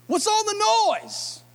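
1 incredulous question. Acted. Jesus confronting the mourners.

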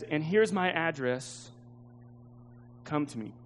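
quiet, falling close on an open invitation; tender invitation. Acted. Woman's tender invitation in letter.

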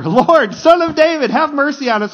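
high, loud desperate cry for mercy. Acted. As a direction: cry out harder, pitched right up. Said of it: "they shouted all the louder".

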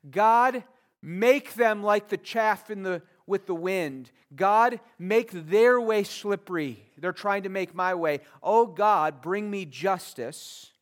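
a psalmist begging God to judge his enemies; pleading prayer voiced for David. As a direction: cry out to God for justice. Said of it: "He says".

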